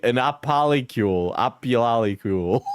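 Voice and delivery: "apolicule", "opialicule" with the stress misplaced; wrong-syllable stress. Shown as a demonstration. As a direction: stumble through "apolicule" and "opialicule", testing the stresses. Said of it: "emphasis on the wrong syllables".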